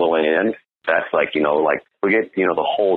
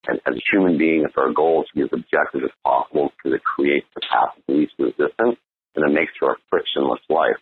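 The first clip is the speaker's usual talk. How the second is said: serious tone. Shown as a demonstration. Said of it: "My tone is very serious".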